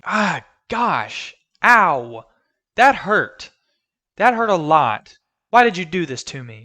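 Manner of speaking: hammed-up pained cry; mock anguish. Real, not acted. Hurt by the sad scene.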